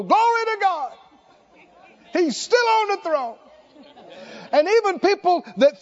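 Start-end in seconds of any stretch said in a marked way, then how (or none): 0.0-3.4 bright, laughing joyful exclamation; cheerful smiling praise. Pretend. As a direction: beam as you praise God. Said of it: "and smile".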